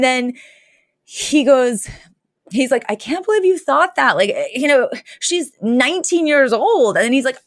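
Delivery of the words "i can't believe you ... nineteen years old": mock indignant dad. Retelling the father's indignant reply.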